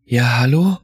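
questioning phone greeting. A narrator's reading. Just-woken father answers the ringing phone, questioning. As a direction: pick up the phone with a tentative, rising hello.

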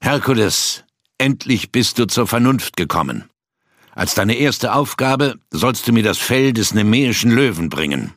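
a haughty king calling across his hall; echoing king's voice. Acted. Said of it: "hallte die Stimme des Königs Eurystheus laut".

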